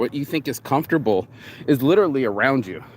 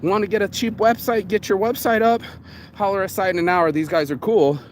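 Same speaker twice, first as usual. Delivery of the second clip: pitched much higher, eager and selling hard; a mock upbeat sales pitch, much higher; 7 semitones higher than usual. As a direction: sell it like a hopeful fan. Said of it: "And I was like".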